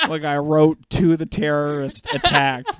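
slow, laughing while talking. Real, not acted. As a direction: chuckle through it. Laughing at memory.

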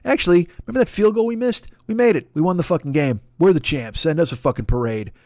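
lightly voiced smug champ; mock gloating fan. Smug fan claiming a win days late, mock cocky voice. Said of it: "someone's like".

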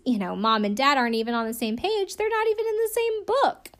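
put-on Stella's line in a light British accent; a hint of a British nanny, voice rising high at the end. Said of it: "God, I wish I could do this accent".

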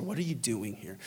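very soft, low question; gentle whisper. Acted. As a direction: hush it right down, gently. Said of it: "This gentle whisper".

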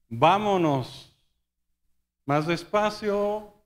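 slow, stretched-out words; drawn-out advice. Retold or imitated. Prisoner advising the captain on the voyage, drawn out. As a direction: draw it out, imitating a cautious warning.

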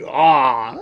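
long cooing "aw"; drawn-out, low sentimental "aw"; imitated "aw". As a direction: mimic strangers teasing with "aw". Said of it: "They'll be like".

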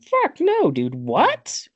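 very high, loud-ish mock freak-out; hammed-up hysterical disbelief; losing his mind. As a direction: squeal it as if totally flipping out. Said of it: "Like, he loses his mind".

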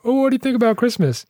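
high, put-on asking voice; imitated questioner. Somebody asking the grouch about Christmas, high mock voice. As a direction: lift the pitch way up for a mock innocent question.

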